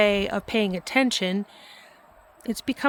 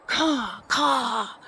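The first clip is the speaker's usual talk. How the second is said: imitating a crow's caw. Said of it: "the crow cawed again".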